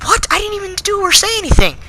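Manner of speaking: indignant what. Retold or imitated. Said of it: "And I was like".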